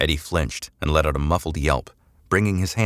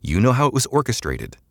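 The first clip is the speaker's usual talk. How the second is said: matter-of-fact; 2 semitones higher than usual. Acted. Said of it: "She spoke matter-of-factly".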